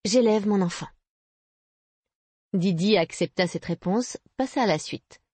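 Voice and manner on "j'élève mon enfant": a touch of pride; proud. A narrator's reading. Young mother answering whether she works, proud. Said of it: "répondit Juliana avec orgueil".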